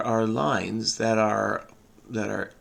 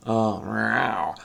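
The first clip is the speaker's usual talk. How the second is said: playful cat meow; 3 semitones lower, 3 dB quieter than usual. Pretend. Cat meow after cat costumes.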